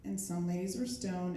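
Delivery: mellow, low-energy delivery; like the chilled-out half of the party; low-energy stoned. Acted. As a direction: let the energy drop, as if stoned. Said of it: "energy levels for those two things are very different".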